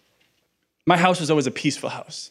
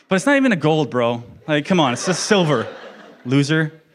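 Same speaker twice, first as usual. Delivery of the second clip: mock taunt. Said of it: "I'm kidding, I'm joking".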